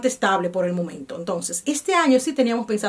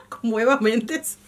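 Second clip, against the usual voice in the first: laughing repeat. Retold or imitated.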